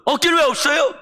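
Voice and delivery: wife shouting down her husband's despair, high and loud; wife scolding. Retold or imitated. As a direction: push him hard, no excuses.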